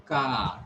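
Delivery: lengthened vowel in "car"; long A. Shown as a demonstration. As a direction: hold the ah in "car". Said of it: "this is long A".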